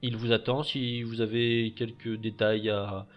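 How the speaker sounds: fussy butler. Acted. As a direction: play a prim, busy majordomo. GM voices the butler.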